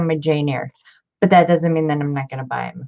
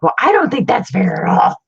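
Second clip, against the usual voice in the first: whiny son; 4 semitones higher, 5 dB louder than usual. Retold or imitated. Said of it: "He was like".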